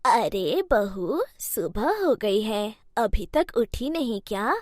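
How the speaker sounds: a lightly voiced elderly mother-in-law, patient; old mother-in-law. Mother-in-law calls her sleeping bahu, slow old voice.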